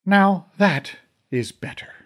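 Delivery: calm on purpose to make a point; overly calm. A narrator's reading. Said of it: "Mom said in an overly calm tone".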